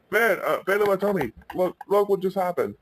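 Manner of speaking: a touch of urgency; mildly urgent. Acted. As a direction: act out Ben calling his friend over. Ben reports the mix-up at home.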